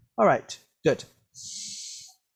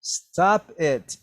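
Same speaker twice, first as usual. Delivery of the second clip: firm, higher mock demand; 6 semitones higher, 3 dB louder than usual. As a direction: act out a child's demand to stop. Teacher acting Jenny's demand.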